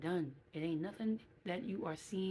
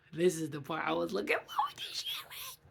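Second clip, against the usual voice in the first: muttered to self; 7 dB louder than usual. Real, not acted. Reading her notes aloud.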